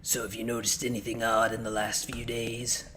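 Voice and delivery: put-on gruff cop with a country accent. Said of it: "I'm putting that country accent in my guy now".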